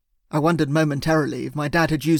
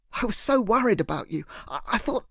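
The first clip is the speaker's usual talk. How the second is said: tearful, breaking off; 6 semitones higher than usual. Acted. Narrator crying to Emily about his worry, voice breaking. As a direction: let the fear catch the voice.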